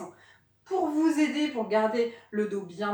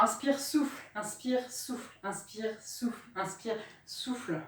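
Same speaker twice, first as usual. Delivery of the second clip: slow breathing cues; 8 dB quieter than usual. Shown as a demonstration. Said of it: "coach paces breathing cues".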